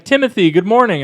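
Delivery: loud, high, sing-out greeting; imitated parishioner greeting. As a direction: call out like a parishioner greeting the priest. Parishioners greeting him by full name.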